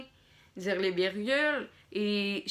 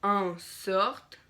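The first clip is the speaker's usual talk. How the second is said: dictating. Shown as a demonstration. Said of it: "dire les points, dire les virgules". (dictée lente, ponctuation dite à voix haute)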